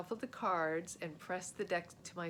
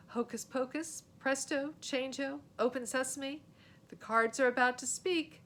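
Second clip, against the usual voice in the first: showman magician; 6 semitones higher, 6 dB louder than usual. Acted. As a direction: play the big-time magician to the court. Boy chanting magic words.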